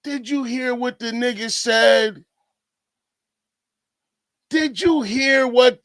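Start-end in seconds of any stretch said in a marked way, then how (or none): none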